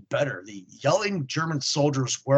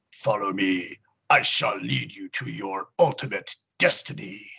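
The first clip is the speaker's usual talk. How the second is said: lower, eerie skeleton voice; 5 semitones lower than usual. Acted. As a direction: speak like a ghostly commander. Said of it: "answers in an eerie voice".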